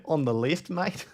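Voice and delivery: put-on jokey Aussie accent with a lifted ending; bad Australian accent. Streamer mocking his own attempt, bad Australian accent. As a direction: repeat it in a poor Australian accent. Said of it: "Such a bad accent".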